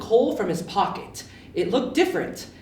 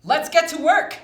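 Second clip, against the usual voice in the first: louder, higher cheerful shout; rally the team; 7 semitones higher, 8 dB louder than usual. Acted. Yubi calling everyone to start working with a shout. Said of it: "shouted Yubi".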